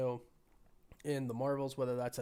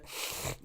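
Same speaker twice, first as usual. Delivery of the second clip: sniffle. Real, not acted. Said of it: "and me sniffle".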